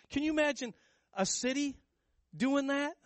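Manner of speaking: high, loud amazed question; excited wonder. Real, not acted. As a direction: marvel out loud at the picture. Preacher marvels at celebrating city.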